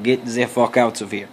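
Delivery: lightly attempted Russian accent, slipping toward German; shaky attempt at a Russian accent; bad Russian accent. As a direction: do a half-hearted Russian accent as Putin. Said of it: "My Russian accent sucks a little bit".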